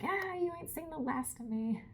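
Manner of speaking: high, mock defiant shout at the ocean; hammed-up defiance at the sea; fist-shaking threat. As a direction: shake your fist and growl a playful threat. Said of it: "shaking her fist at the ocean".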